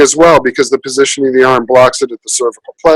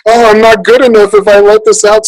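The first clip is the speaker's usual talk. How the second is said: anxious inner voice; 7 semitones higher, 4 dB louder than usual. Retold or imitated. Voicing hidden tyrant's fear.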